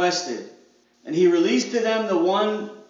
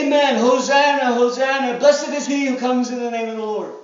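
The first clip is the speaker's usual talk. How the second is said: higher, louder hosanna cheer; mock crowd acclaim; 3 semitones higher, 4 dB louder than usual. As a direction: hail him like the crowd. Crowd shouting hosanna at entry.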